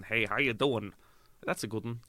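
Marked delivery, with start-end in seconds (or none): 0.0-0.9 lightly put-on American greeting; mock a Brit playing American; American accent. Actor mocking British lads taking roles, mild American accent. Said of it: "They're doing American".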